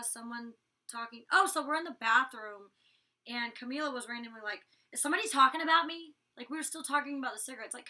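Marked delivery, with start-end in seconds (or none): 4.9-6.1 mock suspicion. Imitating Camila's suspicious question.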